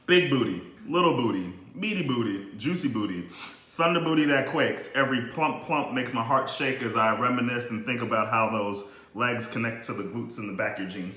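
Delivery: rhythmic spoken-word reading; poem recital. Acted. Recites his comic poem.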